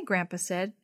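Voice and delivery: ordinary delivery, nothing marked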